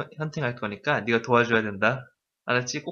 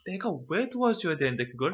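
incredulous; 3 semitones higher, 6 dB quieter than usual. Shown as a demonstration. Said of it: "원어민 선생님 감정이 어때".

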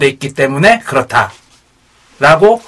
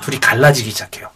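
whispering; 6 semitones lower, 6 dB quieter than usual. Acted. Dramatic aside in the story.

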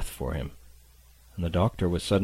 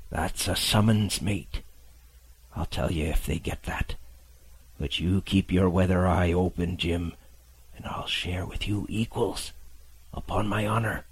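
a dying captain promising a share; weak old sailor. Acted. Captain answers the boy.

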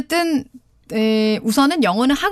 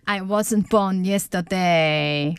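slow teaching read; 4 semitones lower, much slower than usual. Shown as a demonstration. Wife in the skit, demo.

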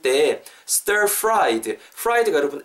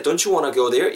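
DON'T YOU WANNA run together as "donchu wanna"; quick linked speech; much slower than usual. Shown as a demonstration. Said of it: "빨리 말씀하실 때". (빨리 연음으로 이어서)

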